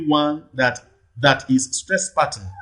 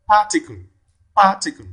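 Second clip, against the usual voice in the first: Particle with PAR high and strong; stress on first syllable; 5 semitones higher, 3 dB louder than usual. Shown as a demonstration. Teacher asks where stress falls, Particle stressed on PAR. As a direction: punch the first syllable of Particle, rest falling away. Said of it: "the first syllable".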